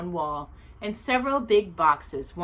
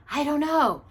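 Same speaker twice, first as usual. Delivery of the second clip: mysterious; 8 semitones higher than usual. A narrator's reading. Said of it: "looked around mysteriously before replying".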